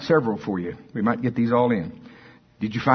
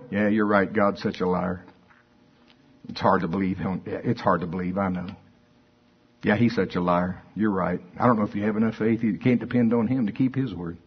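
mock agreement; 5 semitones lower, 3 dB quieter than usual.

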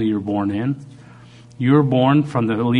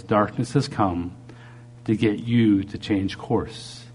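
slow, subdued retelling of a divine word; quoting the Lord; 5 dB quieter, slower than usual. Retold or imitated. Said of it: "what the Lord told me".

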